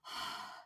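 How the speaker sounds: soft, heavy exhale; stressed sigh. Real, not acted. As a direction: sigh out the tension in your chest. Stressed by giving up control.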